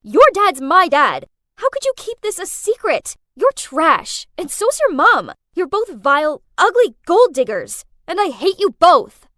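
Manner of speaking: loud furious tirade; full-throated angry outburst; screaming at her. Acted. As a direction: scream every insult at her. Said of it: "I screamed at her".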